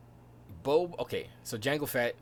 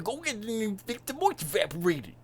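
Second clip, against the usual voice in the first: higher, quick order; Uncle Owen; 10 semitones higher, 4 dB louder than usual. Retold or imitated. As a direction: bark the chore again.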